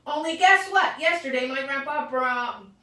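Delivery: very high, loud excited explaining; child bursting with news; excited shout. Acted. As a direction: blurt out the news, thrilled. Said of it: "I shouted".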